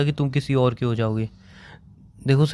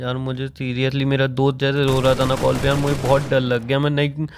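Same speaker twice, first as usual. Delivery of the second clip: still crying; 4 semitones lower than usual. Real, not acted. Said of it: "तुम सच में रो रहे हो?".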